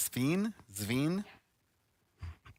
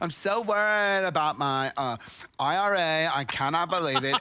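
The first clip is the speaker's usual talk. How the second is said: whiny influencer; 3 semitones higher, 4 dB louder than usual. Pretend. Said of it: "continuing the mock aging youtuber".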